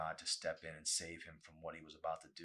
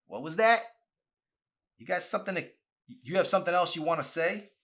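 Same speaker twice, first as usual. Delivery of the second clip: much higher, loud challenging boss; angry confrontation; 11 semitones higher, 13 dB louder than usual. Acted. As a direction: get in his face and demand an answer. Boss confronting a smart remark.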